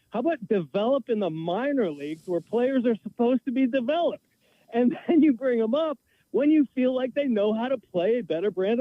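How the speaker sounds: worked-up sports radio rant; heated rant. Real, not acted. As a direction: vent your frustration hotly. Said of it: "how do you really feel".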